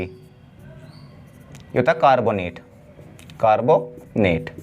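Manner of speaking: कार्बोनेट stretched slowly, falling at the end; slow drilled naming. Shown as a demonstration. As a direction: spell out कार्बोनेट slowly for the class. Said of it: "एक होता है तुम्हारा CO three". (कार्बोनेट धीरे-धीरे, उतरते स्वर में)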